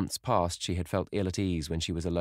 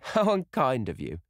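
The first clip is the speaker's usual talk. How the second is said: higher, lilting mock reproach; laughing; 7 semitones higher, 3 dB louder than usual. A narrator's reading. Sybil chiding her brother, higher and mildly amused. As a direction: tease with a touch of laughter. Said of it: "said Sybil, laughing".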